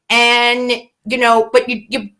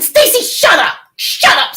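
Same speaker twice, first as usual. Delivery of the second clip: high-pitched jump, then falling back; mildly annoyed telling-off; 5 semitones higher than usual. Real, not acted. Streamer telling Stacy to shut up, mildly annoyed. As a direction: tell off a heckler, mildly irked. Snapping at Stacy mid-chat.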